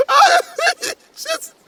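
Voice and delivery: hammed-up tearful father; overblown comforting dad. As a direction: gush over the poor thing. Father comforts Velma, acted.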